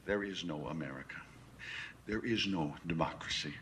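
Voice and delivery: low, measured voice with long pauses; controlled condescension. Acted. Schooling Beale on who really rules, controlled condescension. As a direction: lay it out piece by piece, restrained.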